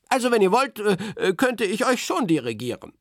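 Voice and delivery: a lightly voiced eager postman; Berti voice. A narrator's reading. Berti offers the children to conduct them, lightly voiced. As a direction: offer it with a little hesitation.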